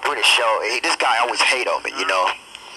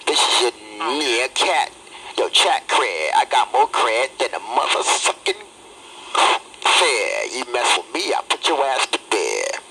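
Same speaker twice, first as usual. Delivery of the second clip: radio intro demo; 2 semitones lower than usual. Shown as a demonstration. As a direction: lay down a hard rap-style radio intro. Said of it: "you guys wanna hear some of my intros".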